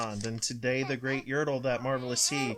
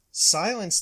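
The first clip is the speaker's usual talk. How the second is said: loud, higher barked command; 6 semitones higher, 7 dB louder than usual. A narrator's reading. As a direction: bark it down at the subject. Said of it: "barked back".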